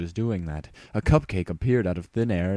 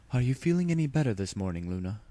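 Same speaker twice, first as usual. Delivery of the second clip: gentle sisterly concern; 5 semitones higher, faster than usual. Acted. Celestia asking her sister.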